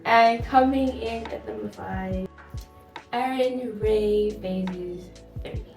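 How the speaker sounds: slow, drawn-out big reveal; countdown announcer. Acted. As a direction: announce it like a chart show. Countdown reveal of number five.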